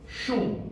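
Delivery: "Shul" as one separate syllable with a short oo; first syllable alone. Shown as a demonstration. Teacher breaking a Hebrew word into syllables, isolated "Shul". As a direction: say "Shul" by itself, short oo, softly ended. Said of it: "the first syllable is shul".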